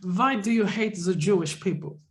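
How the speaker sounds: lightly voiced German interrogator; a touch of German on the question; German accent. Mock therapist grills the patient in a light German accent. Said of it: "I do the accent".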